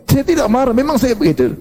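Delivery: high, insistent voice of a hothead denying he is angry; hot-tempered man. Retold or imitated. Preacher imitating a hothead who insists he isn't angry, high and defensive. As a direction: pitch it up and protest that this is just how you talk. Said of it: "Dia berusaha".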